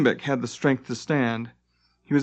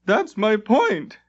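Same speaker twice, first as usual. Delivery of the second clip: slow, high, emphatic; triumphant emphasis, drawn out; 9 semitones higher, slower than usual. A narrator's reading. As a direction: drive the point home. Limbeck continues triumphant.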